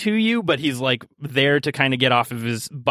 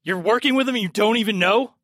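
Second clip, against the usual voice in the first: incredulous scoff; 8 semitones higher than usual. Acted. NPC scoffing at the party.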